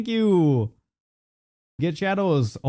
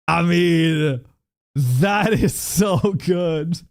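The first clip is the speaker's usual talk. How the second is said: excited; much slower than usual. Real, not acted. Delighted by gift.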